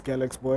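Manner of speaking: put-on "Galax" as GAL-aks, straight into Boy; real pronunciation, Galax Boy. Shown as a demonstration. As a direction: say "Galax Boy" with no ee sound after the x. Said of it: "the real pronunciation is".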